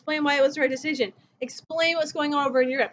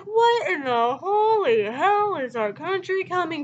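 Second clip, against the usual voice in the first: mock exasperated outburst, slow and strained; hammed-up Truman losing it over the polls; freaking out; 3 semitones higher, slower than usual. Truman reacting to bad poll numbers, mock freaking out. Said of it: "He's freaking out".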